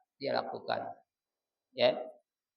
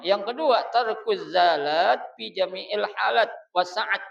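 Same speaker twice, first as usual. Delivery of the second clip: preaching; 5 semitones higher, 7 dB louder than usual. Real, not acted. Reading the religious text aloud.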